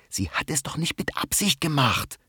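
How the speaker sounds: whispered, reproachful rebuke; whispered scolding. Acted. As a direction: scold him under your breath. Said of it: "schimpft Rosi leise". (geflüsterter Tadel)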